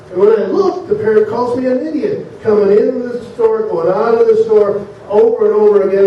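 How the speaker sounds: lightly acted indignant grievance; exasperated complaint. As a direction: raise the pitch in mild exasperation. Offended customer complains to manager.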